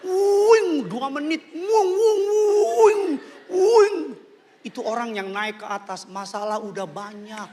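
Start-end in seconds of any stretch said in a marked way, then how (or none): 0.1-0.9 very high falsetto whooshes; loud falling swoops, one after another; imitated coaster swooping. 1.5-4.0 very high falsetto whooshes; loud falling swoops, one after another; imitated coaster swooping.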